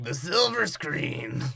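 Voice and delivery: slow, lightly voiced old man; old guy. Retelling the old guy's line, slow mock old-man voice. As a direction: draw it out like a hint of an old man. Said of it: "the old guy's just like".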